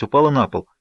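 usual speaking voice

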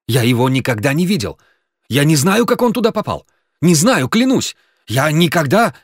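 frantic pleading denial; panicked denial. A narrator's reading. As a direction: blurt it out terrified. Genka panicking, denying the gun.

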